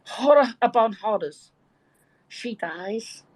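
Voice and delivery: Birkenhead storytelling in thick Scouse; broad Scouse accent. Shown as a demonstration. Telling listeners a village story on request, broad Scouse accent. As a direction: tell the tale in broad, lilting Scouse. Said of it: "hear more of that accent".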